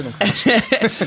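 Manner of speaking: drawn out, high, laughing it out. Real, not acted. Guest laughing at his own football joke. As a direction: chuckle through the words slowly. Joking about PSG players.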